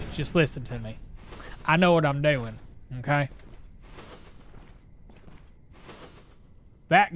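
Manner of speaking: a hint of a Southern accent over his normal tone. Streamer putting on a Southern accent for chat, lightly. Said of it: "I'm doing a southern accent".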